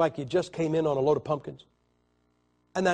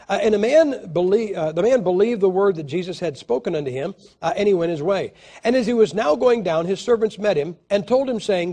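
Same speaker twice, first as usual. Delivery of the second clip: loud, higher King James proclamation; scripture reading; 4 semitones higher, 6 dB louder than usual. Acted. Preacher reading John chapter four aloud to the congregation, loud. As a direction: proclaim it like the Lord speaking.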